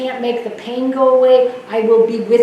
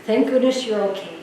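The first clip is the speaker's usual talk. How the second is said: calm reassurance; 5 dB quieter than usual. Retold or imitated. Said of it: "and then he said".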